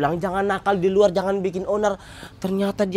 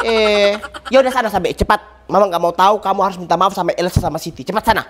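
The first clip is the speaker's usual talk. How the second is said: stern scolding. Acted. Mother orders child to apologise.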